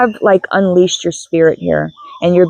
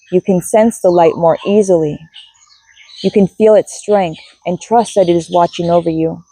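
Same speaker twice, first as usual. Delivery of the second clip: guided meditation. Acted. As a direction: lead listeners gently through the ritual.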